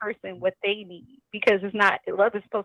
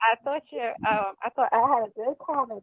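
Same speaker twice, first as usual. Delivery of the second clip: muffled. Real, not acted. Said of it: "You sound muffled".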